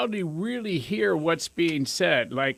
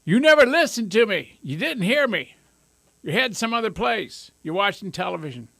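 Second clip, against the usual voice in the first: raised, aggrieved complaint, higher and louder at first; complaining partner; 4 semitones higher, 4 dB louder than usual. Retold or imitated. Partner complaining they are never heard, mock exasperated. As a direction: nag like a fed-up spouse. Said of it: "It goes like this".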